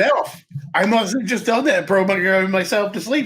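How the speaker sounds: mock boastful. Character bragging, quoted.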